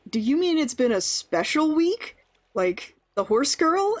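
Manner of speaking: high, rising questioning re-enactment; acted incredulous guess. Worker guesses what the boss meant, acted incredulous question. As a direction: pitch it up as a disbelieving question. Acts own dawning guess in anecdote.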